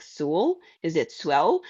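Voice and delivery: "Sewell" as SOO-ul, then "Swell", both as questions; guessed mispronunciations. Retold or imitated. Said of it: "they always say something like".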